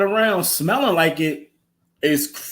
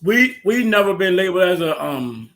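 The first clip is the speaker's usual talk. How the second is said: talking with a mouthful of chips; eating chips. Real, not acted. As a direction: chew while you talk. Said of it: "I'm eating chips right now".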